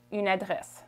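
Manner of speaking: "une adresse" in French, final E unstressed; Canadian French pronunciation. Shown as a demonstration. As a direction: let the E ending "adresse" vanish. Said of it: "is not emphasized".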